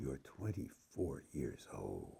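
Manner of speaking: very low, dropped-deep, awed voice of wonder. Speaking directly to the listener, in an awed tone of voice. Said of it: "let me say this in the appropriate, awed tone of voice".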